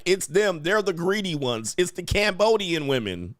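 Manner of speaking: imitated woman insisting it's the others; imitated accusing woman. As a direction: point the blame in her voice. Voices woman accusing other women.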